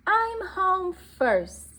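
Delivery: high, loud, slow victory call; triumphant. Acted. Little deer beating mommy home, high triumphant call. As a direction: drag out the win proudly.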